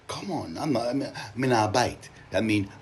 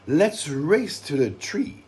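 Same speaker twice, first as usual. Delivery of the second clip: calling out; 5 semitones higher, 5 dB louder than usual. Acted. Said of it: "Jada called".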